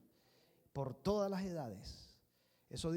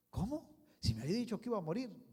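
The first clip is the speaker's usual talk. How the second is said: astonished; 3 semitones higher, faster than usual. Acted. Hezekiah disbelieving the news.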